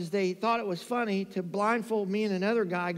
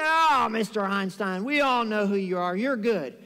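reassuring conductor; 4 dB louder than usual. Acted. Conductor waving away Einstein's lost ticket, reassuring.

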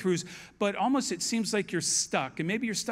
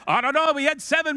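high, louder mock Italian; Italian accent; 6 semitones higher, 5 dB louder than usual. Disciple counting leftovers, high mock Italian accent. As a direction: protest in a hammed-up Italian accent. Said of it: "I hear it in Italian".

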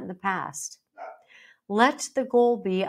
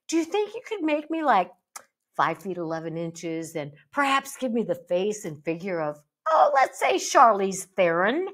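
sarcastic answer; 3 semitones higher, 4 dB louder than usual. Pretend. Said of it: "That's how absurd".

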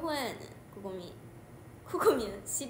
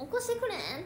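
Kansai-style request; 8 semitones higher, faster than usual. Retold or imitated. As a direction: coax the phone in Kansai dialect. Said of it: "とか言わんから".

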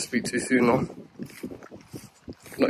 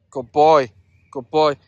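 praising the dog; 2 semitones higher, 4 dB louder, slower than usual. Real, not acted. Praising dog after recall.

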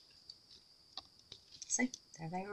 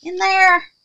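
incredulous; 9 semitones higher, 4 dB louder than usual. Retold or imitated. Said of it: "I was like".

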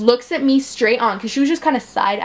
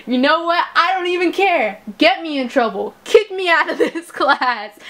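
raised, half-laughing i-don't-care outburst; reckless defiance; 5 semitones higher than usual. Retold or imitated. Student daring the teacher to kick her out, high and laughing. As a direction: toss it off like nothing can touch you. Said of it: "I was just thinking this".

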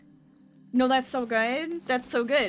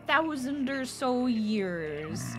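lightly dramatized divine proclamation; dramatic game dialogue read; 2 semitones lower than usual. Acted. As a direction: intone it like a vengeful deity's decree. Reading the god's game dialogue.

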